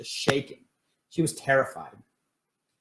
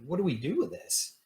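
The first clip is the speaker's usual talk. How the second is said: higher-pitched, mildly desperate question; retold wit's-end exasperation; 6 semitones higher, 4 dB quieter than usual. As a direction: recount a helpless plea, pitched up. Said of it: "we're at wit's end going".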